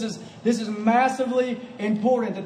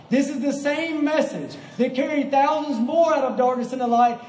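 emphatic, driving sermon delivery; impassioned preaching; 4 semitones higher than usual. Real, not acted. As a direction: proclaim it to the congregation with conviction. Preaches with rising force.

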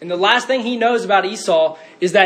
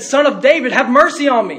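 raised pleading call, imitating the beggar; crying out; 4 semitones higher, 4 dB louder than usual. Blind beggar calling to Jesus over the crowd, crying out. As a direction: call out for mercy, moderately raised. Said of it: "he began to cry out".

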